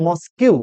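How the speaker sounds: মস্কিউ ending in "-kyu", as spelled; mispronounced mosque. Shown as a demonstration. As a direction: say মস্কিউ in two syllables, "mos-KYU". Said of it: "এটাকে অনেকেই উচ্চারণ করে". (মস্ক-কে ভুল করে "মস্কিউ")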